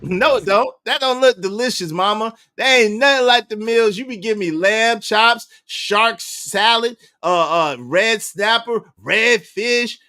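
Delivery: high whiny mock son voice. Host mocking the son complaining about dinner. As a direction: complain like a spoiled boy.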